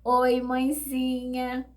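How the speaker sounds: slow, drawn-out tender greeting; slow affectionate hello; sweet daughter greeting. Retold or imitated.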